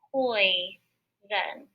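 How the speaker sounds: poison stretched slowly; drawn-out word. Shown as a demonstration. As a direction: draw out poison for the class. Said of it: "and it says".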